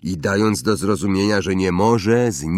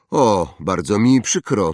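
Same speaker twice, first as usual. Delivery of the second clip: insincere sorry; 3 semitones higher, 5 dB louder than usual. Acted. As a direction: say sorry but not mean it. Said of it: "ton wcale na to nie wskazywał". (nieszczere przeprosiny)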